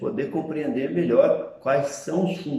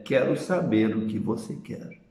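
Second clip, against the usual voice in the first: flat statement "Quero saber o que você quer.", rising on "saber", no question lift; indirect question tone; 2 semitones lower, 4 dB quieter than usual. Shown as a demonstration. Teacher contrasting indirect with direct question.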